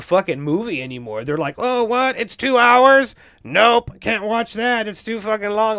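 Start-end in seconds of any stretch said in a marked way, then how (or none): 1.6-5.8 higher-pitched, exaggerated disbelief; mock indignant moviegoer. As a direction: imitate someone balking in outrage. Mimicking impatient moviegoers refusing long films.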